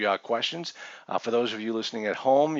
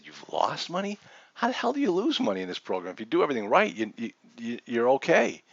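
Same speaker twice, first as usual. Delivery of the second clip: retold incredulity. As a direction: throw his excuse back at him, disbelieving. Retold disbelief at the lender.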